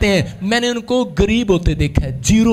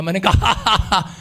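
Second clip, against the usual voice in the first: usual speaking voice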